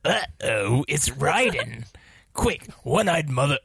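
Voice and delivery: dramatic reading. Acted. Reading haiku in performed voice.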